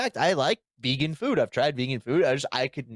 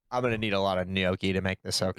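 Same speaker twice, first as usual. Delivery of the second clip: mock quote; 7 semitones lower, faster than usual. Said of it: "And you're like".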